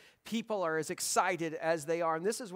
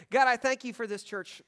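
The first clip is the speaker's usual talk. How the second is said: earnest opening prayer. Acted. Pastor praying over church and families, earnest prayer. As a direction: begin praying sincerely for the church.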